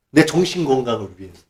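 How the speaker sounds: ordinary delivery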